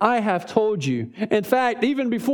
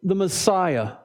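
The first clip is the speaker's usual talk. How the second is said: drawn-out demand; much slower than usual. Acted. Crowd demanding Jesus answer plainly.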